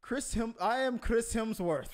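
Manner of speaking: last stab at an Australian star's introduction; Chris Hemsworth. Acted. Co-host buttoning his bombed role-play, mock Aussie accent. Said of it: "I don't know how to do an Aussie, an Aussie accent".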